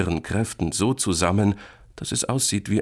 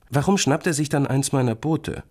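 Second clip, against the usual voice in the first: put-on high childish why-question; questioning small boy; 9 semitones higher, 3 dB louder than usual. Boy asks why creature took his boat, puzzled. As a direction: ask like a puzzled kid.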